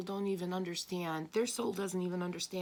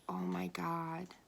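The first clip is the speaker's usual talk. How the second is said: slow, drawn-out disbelief; exasperated oh my God; 3 semitones lower, much slower than usual. Retold or imitated. Looking at unhelpful people, slow exasperated disbelief. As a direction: let it drag out, slow and fed up. Reacting to people who don't understand.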